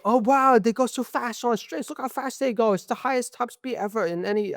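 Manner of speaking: high-pitched, hammed-up Asian accent; mock Asian accent. Speaker mimicking F1 officials marveling at straight-line speed, in a mock Asian accent. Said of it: "doing an Asian accent".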